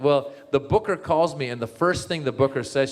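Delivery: ordinary talk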